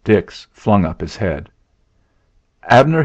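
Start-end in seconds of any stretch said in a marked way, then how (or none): 2.7-3.0 higher, louder exclamation; crying out. A narrator's reading. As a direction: call the name out in protest. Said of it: "he cried".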